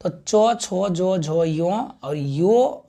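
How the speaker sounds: चो, छो, जो, झो spelled out one by one; syllable drill. Shown as a demonstration. Teacher sounding out the palatal letters for students, deliberate. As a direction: sound out each letter for the class, slowing to a crawl at the end. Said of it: "इसका उच्चारण हम क्या क्या करते हैं".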